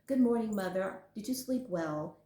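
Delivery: a hint of a prim, formal child on "Good morning, Mother"; mildly hammed-up too-polite greeting; overly proper kid. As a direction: lightly play the suspiciously polite child. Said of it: "bopping down the stairs".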